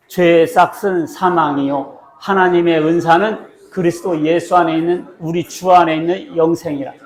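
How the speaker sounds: slow, measured verse reading with a firm start; deliberate, drawn-out recitation; scripture read-aloud. Acted. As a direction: lead everyone through the verse, word by word.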